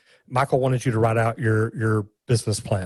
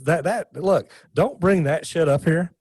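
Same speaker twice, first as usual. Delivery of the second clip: raised pitch, slower, imitating a blunt mentor; mock stern rebuke; 6 semitones higher, slower than usual. Mentor telling the pitcher off, mock stern and slow. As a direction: lay down the law, lightly hammed. Gerber scolding a pitch on stage.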